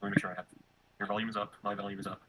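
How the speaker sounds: faint repeated call audio; quiet echo through the stream; audio looping back. Real, not acted. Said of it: "my audio is looping back into your stream".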